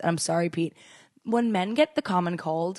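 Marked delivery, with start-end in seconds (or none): 1.2-2.8 slow, deliberate delivery; mock-solemn pronouncement. Real, not acted. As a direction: announce it with mock gravity. Mock-solemn pronouncement about men.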